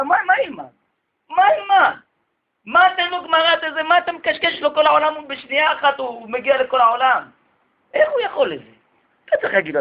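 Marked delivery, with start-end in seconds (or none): 0.0-8.7 high, indignant disbelief, voice climbing; mock the clueless yeshiva teacher's outrage; incredulous rant. Teacher scolding the counselor about phones, high and indignant.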